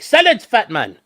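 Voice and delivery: high, loud mock-haughty dog voice; lordly pet voice; voicing the dog. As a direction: speak for the dog, grandly. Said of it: "He's like".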